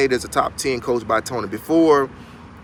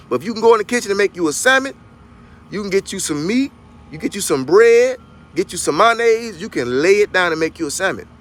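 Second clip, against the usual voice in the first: put-on Southern country accent, lively and pitched up; 7 semitones higher than usual. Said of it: "I'm just talking that accent".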